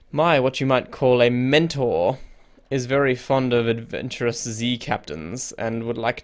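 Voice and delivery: put-on lightly French-accented sea-trader's go-between. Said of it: "I don't know why I made him French".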